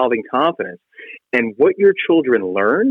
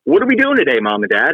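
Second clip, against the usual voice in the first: imitating eager kids. Kids coming home to ask their parents for plans, imitated. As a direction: lightly mimic children pestering parents. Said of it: "my kids come home and they're like".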